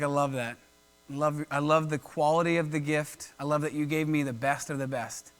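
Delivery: low, tender and unhurried praise; gently approving. Acted. God to Abel about his gift, gently approving.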